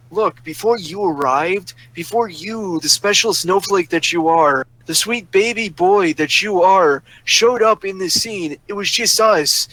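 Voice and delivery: drawn-out, condescending retort; sarcastic comeback. Retold or imitated. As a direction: lecture her with exaggerated, slow sarcasm. Sarcastic comeback retold to the woman.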